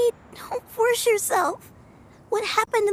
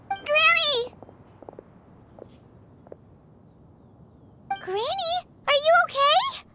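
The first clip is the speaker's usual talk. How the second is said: higher, anxious call to Granny; calling out worried; 6 semitones higher than usual. Acted. Child calls out to crying Granny, worried. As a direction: reach for her, worried.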